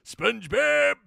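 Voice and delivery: slow, squeaky cartoon voice with a laugh; SpongeBob voice. Host naming the voice in a SpongeBob squeak. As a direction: stretch out the name like the cartoon. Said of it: "I gotta do the voice".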